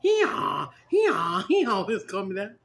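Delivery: talking donkey, loud see-sawing bray; braying jackass. Shown as a demonstration. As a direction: demonstrate a full donkey bray on the words. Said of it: "You have to say it like that, like a jackass".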